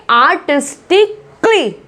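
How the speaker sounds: आर्टिस्टिकली slowly, ending in a tight "klee"; correct pronunciation demo. Shown as a demonstration. Teacher modelling the word for learners, slow correct pronunciation. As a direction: say आर्टिस्टिकली with क्ली as one syllable. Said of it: "क्ली करके आवाज आती है".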